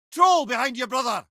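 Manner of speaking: high, urgent call; combat warning call. Acted. Head warns his brother of a troll, high urgent call. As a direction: warn him fast, then drop on brother.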